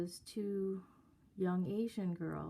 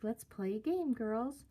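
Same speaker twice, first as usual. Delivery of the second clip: mimicked singsong invitation, pitched up; playful, flirty; 4 semitones higher than usual.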